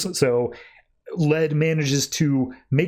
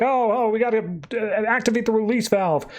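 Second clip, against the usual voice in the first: higher-pitched mock panic; mock freak-out; 5 semitones higher than usual. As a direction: stumble over the words like a flustered scientist. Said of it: "scientists are freaking out".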